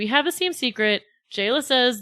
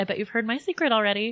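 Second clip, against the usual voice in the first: mock passive-aggressive tone, much quieter; 4 dB quieter than usual. Speaker acting out a woman arriving on set, mock passive-aggressive. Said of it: "she just goes full passive aggressive with it too".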